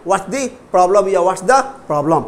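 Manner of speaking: slow drill with "What's" as one syllable; contracted what's. Shown as a demonstration. Teacher repeats slowly for students, contracted "What's". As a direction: keep "What's" joined, stretch the rest. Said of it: "What's बोलेंगे".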